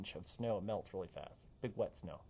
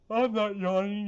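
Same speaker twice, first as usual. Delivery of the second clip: higher, louder teasing denial; playful denial; 7 semitones higher, 7 dB louder than usual. Pretend. Forecaster teasing viewers about yawning, playful. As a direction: deny it with a grin.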